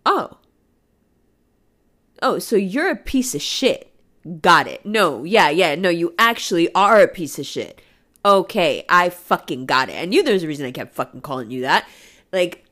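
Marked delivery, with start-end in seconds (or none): 0.1-10.0 icy, louder dismissal; a touch of cold contempt. Retold or imitated. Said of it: "it was cold".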